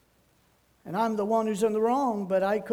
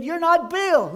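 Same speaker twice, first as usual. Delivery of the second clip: louder, higher realization of mistaken identity; acted surprise; 8 semitones higher, 7 dB louder than usual. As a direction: blurt it out, retelling the surprise.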